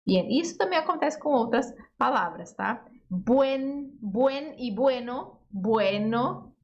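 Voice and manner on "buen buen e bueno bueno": buen and bueno, slow and spaced; slow model reading. Shown as a demonstration. Teacher contrasting buen and bueno for students. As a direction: read buen e bueno slowly to set the forms side by side. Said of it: "ele vai depois e buen antes".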